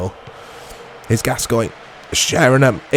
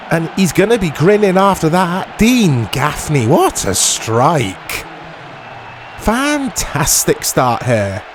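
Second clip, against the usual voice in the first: mock commentator; 4 semitones higher than usual. Continues commentator impression.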